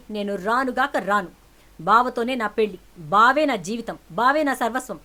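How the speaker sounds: loud passionate refusal; defiant shouting. Acted. Daughter refuses to leave her cousin, loud defiant cry. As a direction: cry it out with all your heart. Niece refuses, declares love.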